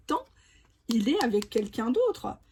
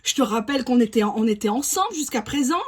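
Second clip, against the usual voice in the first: imitating jealous partner. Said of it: "cette personne va même te dire".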